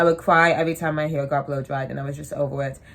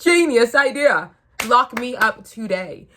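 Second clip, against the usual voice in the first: mock enthusiasm; 6 semitones higher, 5 dB louder than usual. Sarcastic retelling of eagerness.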